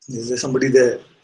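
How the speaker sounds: ordinary talk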